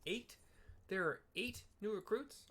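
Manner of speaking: rising disbelief at the number; real surprise, pitch going up; surprised. Real, not acted. Player counting recruits, surprised.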